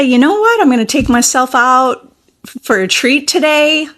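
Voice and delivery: sparkly, celebratory self-talk; celebrating. Shown as a demonstration. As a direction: announce it like good news to yourself. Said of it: "You could feel some celebration within you".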